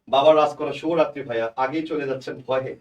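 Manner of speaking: booming echoey room sound; cathedral echo. Real, not acted. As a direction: voice ringing back with echo. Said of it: "ইকো হচ্ছে।".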